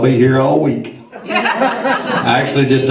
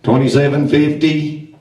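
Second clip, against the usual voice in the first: auctioneer. Acted. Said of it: "our auctioneer".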